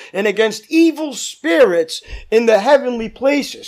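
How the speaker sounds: scripture reading. Acted. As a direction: read the verse out to the congregation.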